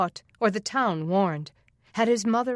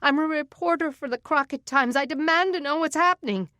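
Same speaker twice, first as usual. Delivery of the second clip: higher and louder, demanding; shouting; 8 semitones higher, 4 dB louder than usual. Acted. Denny shouts at the deputies, demanding answers. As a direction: shout your demand over them. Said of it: "so she shouted".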